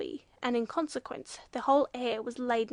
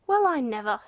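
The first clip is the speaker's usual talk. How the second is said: loud, astonished outburst; exclaimed; 9 dB louder than usual. A narrator's reading. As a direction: exclaim it as if affronted. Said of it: "exclaimed the judge".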